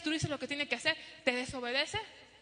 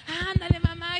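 put-on whining child, louder; 3 semitones higher, 9 dB louder than usual. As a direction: push harder, nagging like a kid. (niño insistiendo más fuerte y agudo)

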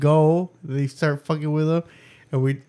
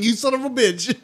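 high-pitched, laughing mock outrage; tickled, retold exasperation; amused cursing; 7 semitones higher than usual. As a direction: curse him through a laugh. Retells amused reaction to son.

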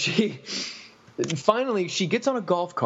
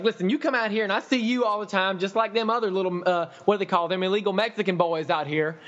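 mock customer rant; 5 semitones higher than usual.

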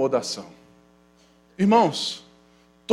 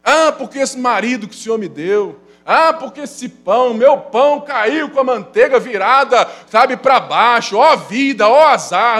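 mock self-pitying moan, building louder; self-pitying lament; 5 semitones higher, 7 dB louder than usual. Preacher acting out a churchgoer lamenting bad luck, hammed-up self-pity. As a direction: wail "Ó vida, ó azar" like a hammed-up victim. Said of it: "a gente continua contando a mesma história".

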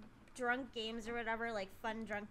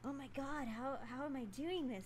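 put-on giddy, squealing drunk wonder; drunken amazement; 4 semitones higher, 13 dB louder than usual. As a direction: gush like a tipsy party girl. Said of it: "my drunk mind was like".

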